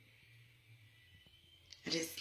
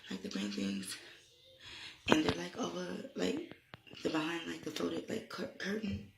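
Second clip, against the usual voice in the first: frantic report; 4 semitones higher, 3 dB louder than usual. Retold or imitated. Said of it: "I said".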